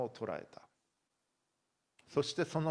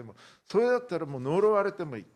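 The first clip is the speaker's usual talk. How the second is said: heated oath; 5 semitones higher, 6 dB louder, faster than usual. Acted. Peter swearing he never knew him.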